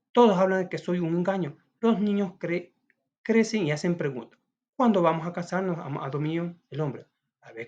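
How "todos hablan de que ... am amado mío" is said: woman's reproach. Acted. Woman demands marriage in play.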